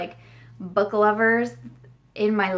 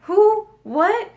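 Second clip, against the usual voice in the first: high, loud panicked questions from husband; husband shocked to find her crying, high loud alarm; 12 semitones higher, 8 dB louder, slower than usual. Retold or imitated. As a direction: fire off frantic questions like a startled husband. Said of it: "and he's like".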